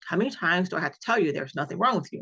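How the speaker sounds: fast, mildly exasperated imitation of a doctor; retold angry doctor. Doctor fed up with his patient's questions, mildly angry and rapid. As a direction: rattle it off like a doctor losing patience, understated. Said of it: "he seemed at this point to be getting angry".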